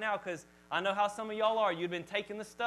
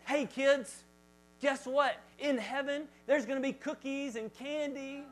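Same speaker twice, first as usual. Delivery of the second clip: put-on sing-song children's minister; 4 semitones higher, slower than usual. Minister luring kids.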